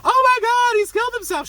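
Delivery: very high, loud mock wail; hammed-up hysterical panic. Woman faking horror at his death, hysterical. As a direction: play frantic, tearful shock at full pitch. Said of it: "she's, like, crying throughout the scene".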